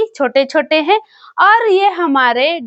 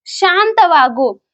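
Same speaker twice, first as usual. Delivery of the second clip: slow demo; 2 semitones higher, much slower than usual. Shown as a demonstration. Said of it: "तो शांत हो जाओ तो".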